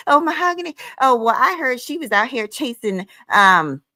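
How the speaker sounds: high prissy mimic of the woman; mocking a rival with a high fake voice; mock high imitation. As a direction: lift the voice way up to mock her. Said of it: "She got up there and told".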